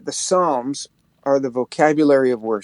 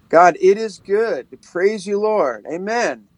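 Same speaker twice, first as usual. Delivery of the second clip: slow psalm turned into prayer; prayerful; 3 semitones higher, slower than usual. Shown as a demonstration. Demonstrating turning scripture into prayer, slow and prayerful. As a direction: pray the verse back to God slowly. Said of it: "instead of reading the whole thing".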